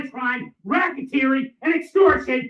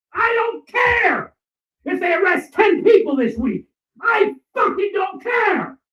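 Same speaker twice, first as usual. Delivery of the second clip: much higher and louder, slow raging yell; furious shout; 7 semitones higher, 3 dB louder, slower than usual. Real, not acted. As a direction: bellow each word in fury. Raging rant at police.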